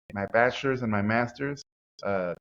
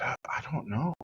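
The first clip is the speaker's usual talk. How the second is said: whispered, halting shy answer; timid whisper; 3 semitones higher, 5 dB quieter than usual. Retold or imitated. Teen answering the stern art teacher, whispered. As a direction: barely breathe the words out.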